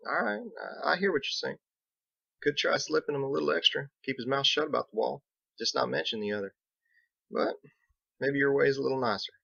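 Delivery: a rough lawman giving ground; Biggs. Acted.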